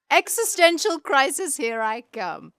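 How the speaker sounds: high, loud mock despair; sighed, hammed-up existential crisis; mock dramatic. Real, not acted. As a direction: throw it out like a melodrama. Sighing self-mocking dramatic aside.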